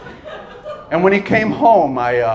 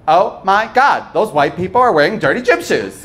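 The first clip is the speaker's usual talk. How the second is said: mock gossip; 3 semitones higher than usual. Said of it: "they wouldn't say it like that".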